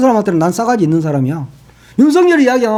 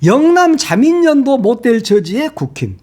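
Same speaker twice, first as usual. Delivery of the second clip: slow, weighty headline reading; pointed headline reading; editorial headline read out; 5 semitones higher than usual. Retold or imitated. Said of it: "사설 제목이".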